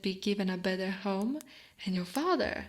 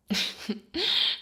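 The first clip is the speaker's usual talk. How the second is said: affectionate chuckle. Acted. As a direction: chuckle rising into a hum. Affectionate cuddling with husband.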